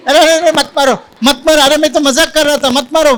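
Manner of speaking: high-pitched mock plea to stop; mock pleading. Preacher acting out his old self begging off a beating, mock pleading.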